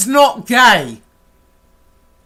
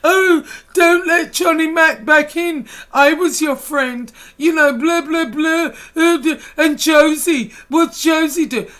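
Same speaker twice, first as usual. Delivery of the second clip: high, whiny mocking voice with a fake cry; whiny tattletale parody, rising to a mock wail; mock whining; 4 semitones higher than usual. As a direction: sneer as you mimic a crybaby tattling. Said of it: "Oh, whining to Tony".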